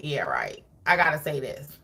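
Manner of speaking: low, grudging "Yeah, right"; grudging mock employee voice. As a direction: sound like you don't mean a word. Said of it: "it wasn't their pleasure".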